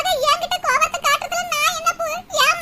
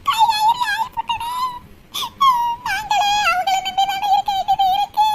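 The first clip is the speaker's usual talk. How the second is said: wailing, pitched higher, through tears; crying out; 5 semitones higher than usual. Acted. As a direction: break into a tearful wail. Mother repeats her lament in tears. (உயர்ந்த குரலில் அழுகையுடன் புலம்பல்)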